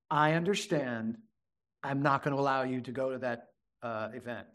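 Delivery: low, softened parental refusal; calm limit-setting. Shown as a demonstration. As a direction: acknowledge gently, then refuse quietly. Models acknowledging, then calmly setting limit.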